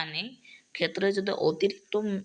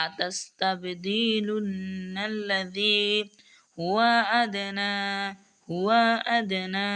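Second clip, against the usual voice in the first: slow chanted recitation of each word; تلاوة مجودة بطيئة; Quran recitation; much slower than usual. Shown as a demonstration. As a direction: recite each word with measured tajweed stretches. Teacher recites verse word by word.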